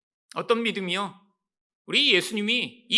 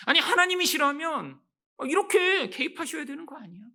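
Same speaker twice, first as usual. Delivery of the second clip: a hammed-up indignant demand; imitated demand; 7 semitones higher than usual. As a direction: press God in mock protest. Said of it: "우리 또한 하나님에게 이렇게 반응하기".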